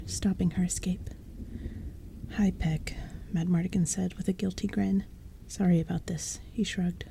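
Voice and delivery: hushed, breathy-free whisper read; whispered storytelling. A narrator's reading. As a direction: bedtime story told in a whisper. Narration continues whispered.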